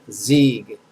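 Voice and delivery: "Zieg" loud and falling, as a lone syllable; pronunciation demo. Shown as a demonstration. Teacher introduces the last syllable, pronunciation demo. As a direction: announce "Zieg" firmly with a falling end. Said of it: "Last syllable".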